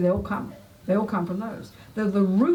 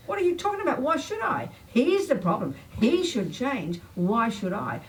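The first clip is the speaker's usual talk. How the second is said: mock shocked protest; 4 semitones higher than usual. Jealous partner told to change, indignant shocked protest. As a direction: voice jumps higher, indignant and outraged. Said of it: "I'll be shocked".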